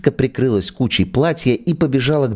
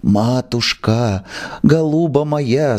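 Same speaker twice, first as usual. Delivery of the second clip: hissing plea; 2 semitones higher, slower than usual. Acted. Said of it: "зашипел Индюков".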